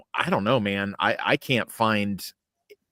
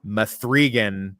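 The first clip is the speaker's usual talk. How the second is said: slow, drawn-out fake announcement; mock hype; much slower than usual. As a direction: drag out the title like a fake trailer. Mock-hyping an unwanted sequel.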